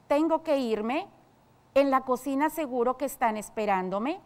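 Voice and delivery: each sentence ends on a questioning rise, "irme" and "esperándome" lifted up; doubtful. Shown as a demonstration. A servant, unsure, asking whether to leave for the kitchen. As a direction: sound unsure whether you really have to go. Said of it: "Si tu respuesta fue duda, es correcto".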